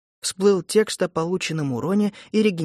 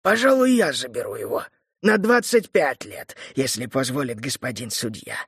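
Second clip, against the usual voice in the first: calm buyer. Acted. Buyer claims the boy.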